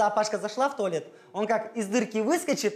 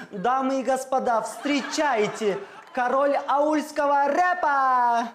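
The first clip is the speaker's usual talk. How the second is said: ringmaster; slower than usual. Acted. Announcing the rap king entrance.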